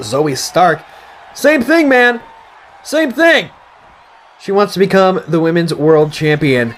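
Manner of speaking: lively play-by-play announcing; wrestling commentator. Acted. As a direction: call the match like a ringside commentator. Play-by-play of game match.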